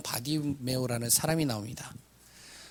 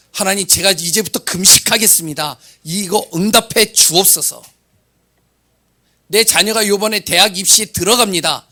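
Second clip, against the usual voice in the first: louder, pushy mock prayer; mock self-centred prayer; 4 semitones higher, 8 dB louder than usual. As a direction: parody someone bargaining with God. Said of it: "보고하는 형식으로 기도를".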